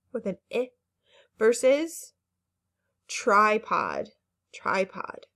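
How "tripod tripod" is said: tripod with a long I. Shown as a demonstration. Teacher repeating tripod for the class, long I. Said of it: "It's a long I sound".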